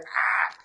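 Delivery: unvoiced mock cry of alarm; mimed panic gasp. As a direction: let out a voiceless panicked "ah". Imitates panic of fight or flight.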